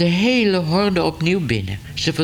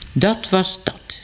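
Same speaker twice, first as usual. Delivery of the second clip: slow, pleased and settled; a man content after kicking the cat, slowly; satisfied; 4 semitones higher, slower than usual. Acted. Ellemeet to himself after scattering the cats, satisfied. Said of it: "zei meneer Ellemeet voldaan".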